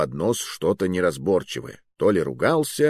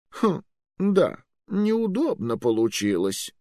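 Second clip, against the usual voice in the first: put-on old magister; 9 semitones higher, slower than usual. Magister mock regret.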